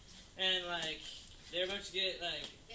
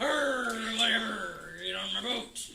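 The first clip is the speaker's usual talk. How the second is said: Scruffy Beard; slower than usual. Acted. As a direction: wave off criticism in a bad pirate accent. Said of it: "not a very good pirate accent".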